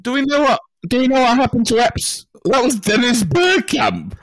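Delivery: put-on high, far, terrible Dutch accent; a hammed-up Dutch footballer; bad Dutch accent. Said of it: "That's the worst Dutch accent I have ever heard".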